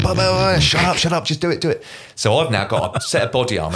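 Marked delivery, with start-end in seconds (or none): 0.0-1.8 mocking babble. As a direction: send up his protests in a silly high voice. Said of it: "He's going".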